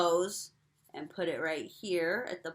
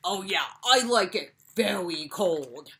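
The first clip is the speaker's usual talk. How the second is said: penguin puppet voice; 5 dB louder than usual. Acted. Puppet Pete answers.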